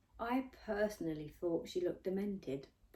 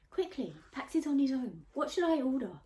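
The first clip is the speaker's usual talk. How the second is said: put-on giggly girl; 7 semitones higher, 5 dB louder than usual. A narrator's reading. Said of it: "asked a slender girl with a giggle".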